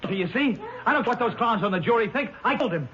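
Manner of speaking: high, rising, reckless confession; accused man shouting his guilt to the court; defiant outburst. Acted. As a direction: blurt it out wildly. Defendant blurting confession in court.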